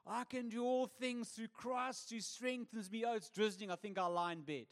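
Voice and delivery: lady with the cat. Acted. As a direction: quote the verse, then excuse yourself from church. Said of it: "She says this".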